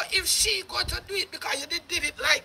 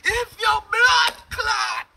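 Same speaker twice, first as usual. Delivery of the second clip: mock threat; 4 semitones higher, slower than usual. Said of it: "look like mama tell her, say".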